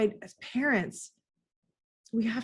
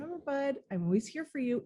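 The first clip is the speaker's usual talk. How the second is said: gentle reassurance; 5 semitones higher, 4 dB quieter, faster than usual. Retold or imitated. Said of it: "it's like".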